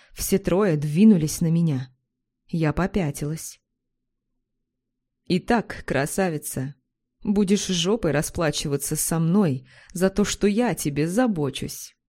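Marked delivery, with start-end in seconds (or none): none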